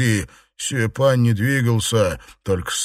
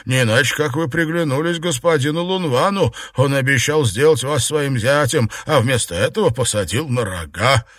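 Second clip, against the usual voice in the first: teasing mockery; 2 semitones higher, faster than usual. Jiarong teases muddy Xuepan.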